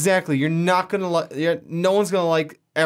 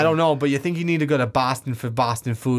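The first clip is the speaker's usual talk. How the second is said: mock Boston, R's dropped; put-on Boston local talk; pretend Boston accent; 4 semitones lower than usual. Cohost talking Boston food, pretend Boston accent. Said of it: "pretending to have a Boston accent".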